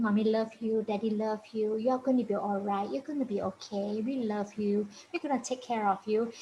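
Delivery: soft, reassuring murmur; soothing tone. Shown as a demonstration. Parent reassuring a crying child, soothing. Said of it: "Keep talking in soothing tone".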